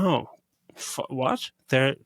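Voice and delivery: mock bewilderment settling into understanding; dawning realisation. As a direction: piece it together haltingly, then accept it. Acts out viewer realising the twist.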